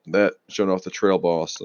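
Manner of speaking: talking through hiccups; hiccuping between words. Real, not acted. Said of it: "I got the hiccups now".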